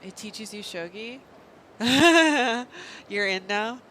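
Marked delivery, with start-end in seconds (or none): 1.2-3.0 sudden burst of loud laughter. Real, not acted. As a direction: laugh out loud, caught off guard. Laughing at game.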